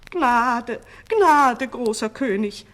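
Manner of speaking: high, loud cry for mercy; pleading. A narrator's reading. Two old sorcerers begging the king, pleading. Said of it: "flehten die beiden Alten".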